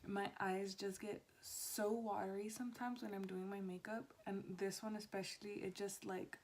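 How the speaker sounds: soft, hushed talk; quiet at night. Real, not acted. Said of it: "talking a lot lower than I usually do".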